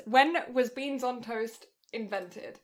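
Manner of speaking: reading slowly as she types the search; slow typing read. Real, not acted. While Googling the question, slow typing read. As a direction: sound it out word by word while typing. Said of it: "I'm Googling this".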